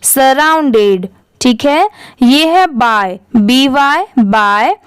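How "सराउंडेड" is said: सराउंडेड slowly, joined into one word; blended repeat. Shown as a demonstration. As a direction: blend "sa-round-ded" for the learner. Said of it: "एक बार फिर से repeat करिए". (सराउंडेड जोड़कर, साफ़ उच्चारण)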